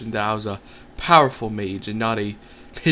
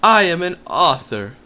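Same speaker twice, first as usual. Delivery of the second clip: high, loud panicked cry; 7 semitones higher, 8 dB louder than usual. Acted. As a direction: blurt it out in a panic. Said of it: "In my moment of panic".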